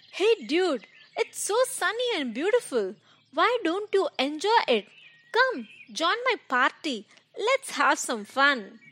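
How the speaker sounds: high, cheerful carefree call; a carefree grasshopper inviting to party; chirpy grasshopper. Acted. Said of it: "the grasshopper asked one of the ant".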